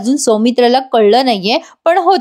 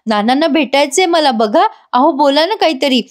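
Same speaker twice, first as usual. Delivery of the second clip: lightly acted eager pleading, higher pitch; very happy; 4 semitones higher than usual. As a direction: coax him happily, pitch lifted. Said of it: "Janaki खूप खुश होते". (आनंदाने आर्जव, हलका अभिनय)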